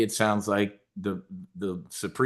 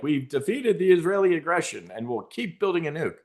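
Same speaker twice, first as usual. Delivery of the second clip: mock Iranian leader; 7 semitones higher than usual. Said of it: "This guy gets on T V like".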